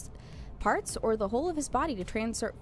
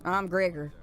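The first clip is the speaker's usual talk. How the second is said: country twang with a drawn vowel; stronger country accent; 4 semitones lower, slower than usual. Acted. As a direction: lean harder into the Texan country accent. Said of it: "gonna give him a country accent".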